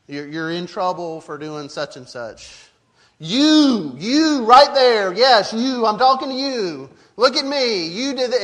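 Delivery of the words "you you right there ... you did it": loud, high, drawn-out YOU, hammered home; emphatic parental scolding. Shown as a demonstration. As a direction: demand the child's full attention, forcefully. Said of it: "you say it emphatically".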